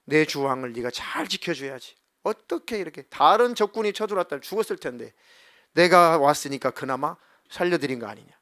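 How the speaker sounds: emphatic mock reprimand, building in force; retold scolding. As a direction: act out a rebuke, leaning harder as it goes. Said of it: "막 꾸짖죠".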